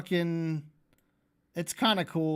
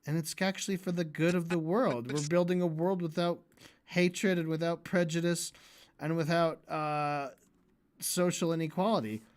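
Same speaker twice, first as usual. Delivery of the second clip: mock soothing. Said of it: "then he's like".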